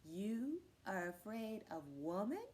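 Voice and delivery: slow question with a long rise at the end; puzzled. Acted. Cat repeating his question to Man, slow and puzzled. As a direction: repeat it slowly, not understanding. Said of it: "looking a little puzzled".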